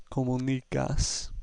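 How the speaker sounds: comunicas with next-to-last syllable "ni" stressed. Shown as a demonstration. Teacher applying rule to last word, stress on NI. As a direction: lean on "ni" in comunicas. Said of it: "stress is on the next to last syllable".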